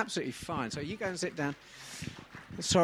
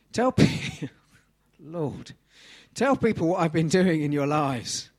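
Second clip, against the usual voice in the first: Jesus commanding; 4 semitones higher, 8 dB louder, slower than usual. Acted. Voicing Jesus, emphatic.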